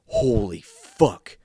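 a retold shocked exclaim, slowed right down; mock loud exclaim. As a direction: stretch it out like you can't believe it. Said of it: "in the theater loudly exclaimed".

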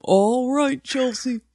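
high put-on phone sign-off; grandmother impression. Guest imitating grandmother ending a call, high put-on voice. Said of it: "That's how she ends every call".

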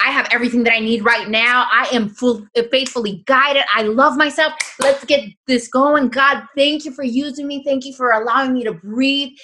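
high, loud, fervent thanks; energized morning affirmation. Shown as a demonstration. Showing the listener her morning affirmations, fervent. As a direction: pump yourself up and thank God out loud. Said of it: "saying it with that energy".

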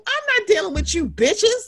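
high, laughing sassy dismissal; laughing retort. Retold or imitated. Joking to cohosts, high laughing dismissal. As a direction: toss it off through laughter.

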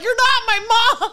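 high, slow bratty whine; high bratty mock. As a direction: whine it like a sulky kid. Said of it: "And you were like".

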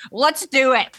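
high, keen mock agreement; eager mock voice. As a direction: jump at it with a grin. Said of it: "she's like".

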